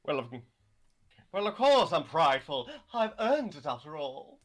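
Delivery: haughty, preening diva; campy drag queen. Acted. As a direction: sneer like a vain star. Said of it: "you really are a once prideful bastard".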